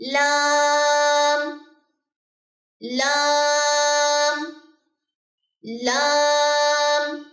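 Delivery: لام held very long and slow; drawn-out لام. Shown as a demonstration. Teacher demonstrating the letter slowly. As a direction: stretch لام out clearly. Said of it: "لام، الف اور میم".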